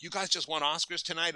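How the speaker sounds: high-pitched incredulous question; retold wide-eyed astonishment; amazed passers-by. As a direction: imitate strangers marvelling at a win.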